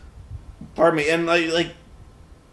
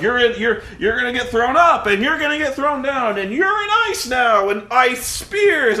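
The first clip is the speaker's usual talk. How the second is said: mock epic fighter; 6 semitones higher than usual. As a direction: narrate the attack like an over-the-top action hero. Imitating the fighter in the trailer.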